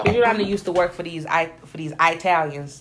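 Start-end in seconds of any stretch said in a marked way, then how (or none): 2.0-2.8 "Italians" said with a long EYE at the start; pointedly wrong "Italians", opening like the word eye; mock mispronounced Italians. Shown as a demonstration. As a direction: say "Italians" as eye-TAL-yuns. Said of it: "That's the racist way to say it".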